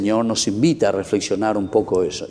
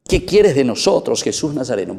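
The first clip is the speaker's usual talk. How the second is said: a mildly raised demon's cry; 3 semitones higher than usual. Acted. Preacher voicing the demon crying out to Jesus, mild mock cry. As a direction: voice the unclean spirit calling out to Jesus. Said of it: "este demonio impuro comienza a gritar".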